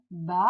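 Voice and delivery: "baleine" as ba... lei... ne; split into syllables. Shown as a demonstration. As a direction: break "baleine" into three spaced syllables. Teacher splits word into syllables.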